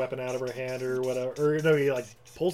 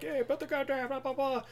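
higher, lightly voiced cop command; mock cop order; 12 semitones higher than usual. Cops storm in, telling him to drop the gun, in a higher mock voice. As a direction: bark it like a generic cop.

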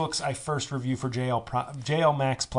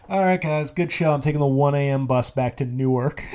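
mock brisk farewell; 5 dB louder than usual. Acts out abrupt goodbye after show.

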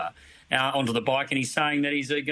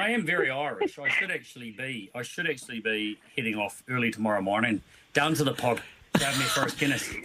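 put-on Irish accent. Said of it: "You're on point".

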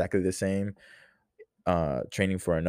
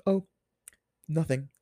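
mom's voice; 9 semitones higher than usual. Retold or imitated. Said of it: "differentiate when it's me and when it's her".

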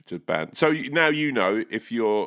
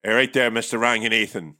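put-on Northern Irish accent; 2 semitones higher, 3 dB louder than usual. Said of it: "the guy answers and is like".

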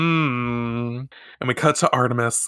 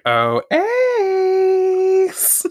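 very high, loud swooning call; calling after him; 4 dB louder than usual. Retold or imitated. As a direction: call out to the boy you like. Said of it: "she calls after him".

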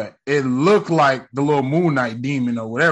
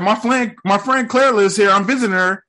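put-on nervous old lady; 7 semitones higher, 3 dB louder than usual. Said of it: "And then she said".

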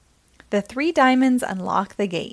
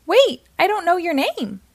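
higher, raised call; calling after her; 7 semitones higher than usual. A narrator's reading. Prince Mickey calling after Minnie-rella, raised call. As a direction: call after someone leaving. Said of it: "Prince Mickey calls".

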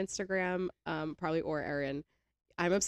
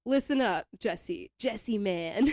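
hippie voice; 3 semitones higher, 5 dB louder, much slower than usual. Retold or imitated. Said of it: "he gets into this, like, hippie voice".

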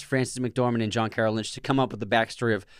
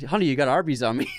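put-on Minnesota accent; 2 semitones higher, faster than usual. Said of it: "he's like".

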